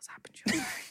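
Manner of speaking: hushed voice. Answering a greeting in a bar role play, whispering. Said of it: "You're not meant to whisper back".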